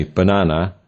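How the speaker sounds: "banana" with weight on the middle NA; ba-NA-na, "banana" stressed in the middle; stress on second syllable. Shown as a demonstration. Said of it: "stressed on the second syllable".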